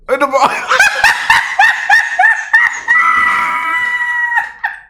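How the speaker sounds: shrieking high howl of laughter; screaming laugh. Real, not acted. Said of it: "I'm crying".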